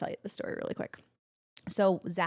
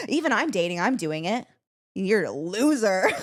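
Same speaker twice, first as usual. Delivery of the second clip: mock mother pushing a match, pitched up; imitating Mom pushing; 4 dB louder than usual. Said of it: "She's like".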